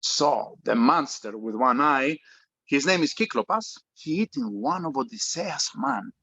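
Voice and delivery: put-on Greek father, heavy Greek accent. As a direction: speak English with a thick Greek accent. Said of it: "speaks with a heavy Greek accent".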